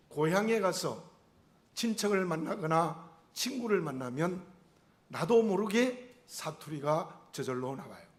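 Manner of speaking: ordinary talk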